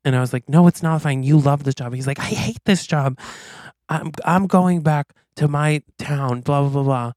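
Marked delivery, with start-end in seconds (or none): 0.5-1.9 raised, louder acted objection; urgent protest. Acted argument over the firing. 2.2-7.1 acted outburst, pitched up; mock quitting tirade, moderately raised; making a scene. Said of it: "he makes a big scene".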